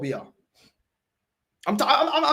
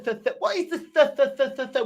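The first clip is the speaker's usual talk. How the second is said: mock lisp; 3 semitones higher than usual. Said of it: "with your tongue".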